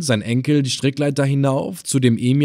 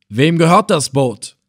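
loud, higher hail from above; calling down; 5 semitones higher, 5 dB louder than usual. Acted. Captain calling down to the boat, loud hail. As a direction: call out over the water.

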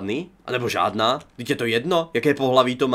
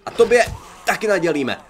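taunt; 6 semitones higher, 5 dB louder than usual. Real, not acted. Attacking zombie, taunting.

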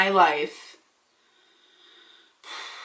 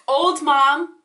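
indignant echo; 5 semitones higher, 4 dB louder than usual. Real, not acted.

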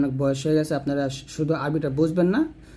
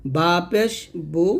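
slow spelling; much slower than usual. Shown as a demonstration. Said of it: "প্রথমে বানান করে".

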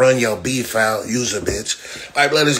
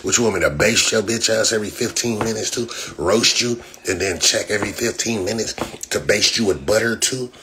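ordinary delivery

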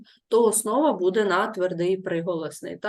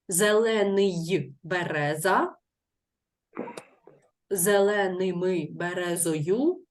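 slow wrong example; slower than usual. Shown as a demonstration. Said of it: "так звучати не може".

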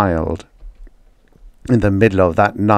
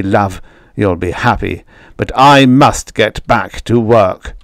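angry father; 2 semitones higher, 3 dB louder than usual. Acted.

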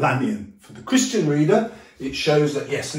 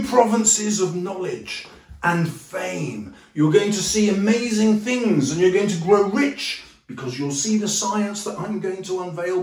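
grand boastful Hyde; 3 semitones higher, 3 dB louder than usual. Retold or imitated. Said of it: "and he says".

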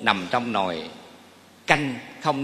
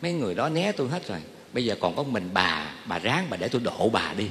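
husband pleading; 5 semitones lower, 5 dB quieter than usual. Retold or imitated. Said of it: "Ông nói".

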